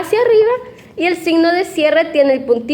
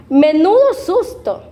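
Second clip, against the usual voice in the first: relieved exclamation; 2 semitones higher than usual. Shown as a demonstration. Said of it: "Un ejemplo de estas oraciones".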